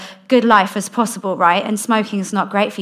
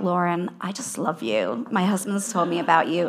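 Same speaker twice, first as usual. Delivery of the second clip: imitated tender greeting; 2 semitones lower, 6 dB quieter than usual. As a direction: imitate a woman gently pouring out affection. Retold wife greeting her tenderly.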